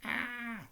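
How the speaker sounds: mock scream. A narrator's reading. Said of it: "Hermione screamed out loud".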